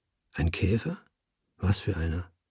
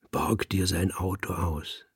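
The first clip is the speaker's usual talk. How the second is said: panted; 3 semitones lower, 4 dB quieter than usual. Acted. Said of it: "hechelte ich".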